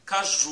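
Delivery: Caju, weight on the ending; stress on last syllable. Shown as a demonstration. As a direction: lean on the final "ju" of Caju. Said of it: "c'est la dernière syllabe jou la plus forte".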